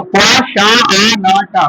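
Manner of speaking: each piece of "क्वा शा आ ना टा" separately, kwa-sha-a-na-ta; teacher spelling out "क्वा शा आ ना टा" by its sounds. Shown as a demonstration. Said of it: "क्या पढ़ेंगे".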